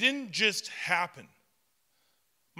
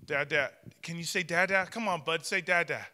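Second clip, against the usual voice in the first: put-on coaxing baby talk. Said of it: "I would be saying".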